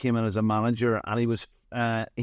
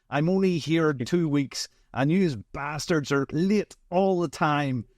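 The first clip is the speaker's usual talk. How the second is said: retold boss, brash New York accent, pitched higher; 5 semitones higher than usual. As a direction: do the angry New Yorker's thick accent, raised pitch. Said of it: "thick New York accent".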